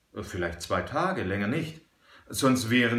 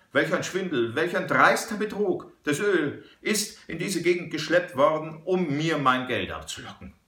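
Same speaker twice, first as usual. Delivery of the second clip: a banker exploding at the swindle; große Aufregung; 5 semitones higher than usual. A narrator's reading. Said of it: "rief in großer Aufregung". (in großer Aufregung rufend)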